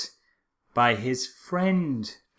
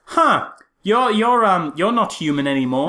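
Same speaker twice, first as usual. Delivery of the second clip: mock Guile; 4 semitones higher, 3 dB louder than usual. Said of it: "He's like".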